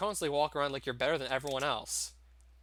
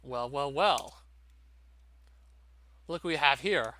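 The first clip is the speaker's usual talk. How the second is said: a slow, lightly menacing father's drawl with a louder last well; 3 dB louder, slower than usual. Acted. Father catching daughter's boyfriend, slow mock menace. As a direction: gloat over the trespasser.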